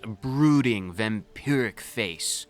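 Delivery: dramatic reading. Acted. Reads flirty dialogue dramatically.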